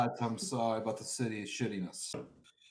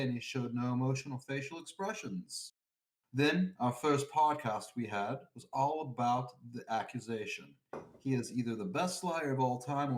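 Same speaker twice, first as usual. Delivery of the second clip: mock southern drawl. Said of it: "Read it in your southern drawl pedophile voice".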